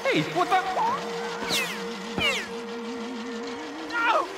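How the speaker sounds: high startled yell; shocked outburst. Acted. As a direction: yelp in shock. Villain finds sabotage.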